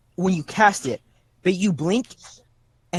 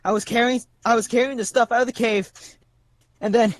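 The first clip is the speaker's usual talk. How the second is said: higher, fast, flustered lost soul; flustered lost man; 4 semitones higher than usual. Acted. A lost man tells the party how he got here, lightly higher and flustered. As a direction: rush it out, confused and scared. GM voices NPC Moose Juice.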